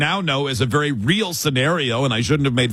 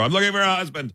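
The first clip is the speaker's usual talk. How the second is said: higher, silly excuse; joke excuse; 6 semitones higher, faster than usual. Pretend. When Kayla asks what he's doing, a higher silly excuse. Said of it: "I'm gonna go".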